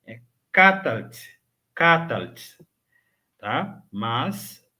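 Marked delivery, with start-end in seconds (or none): 0.5-2.6 Catalt clipped to two beats, no vowel after L; Catalt, L not emphasized. Shown as a demonstration. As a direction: run the L of Catalt straight into T. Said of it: "pronuncio sem enfatizar o L".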